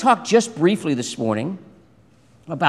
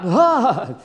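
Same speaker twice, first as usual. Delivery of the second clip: loud, raised "ah" of fright; mock frightened cry; 6 semitones higher, 4 dB louder than usual. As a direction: recoil from a snake in mock panic. Moses recoiling from the snake.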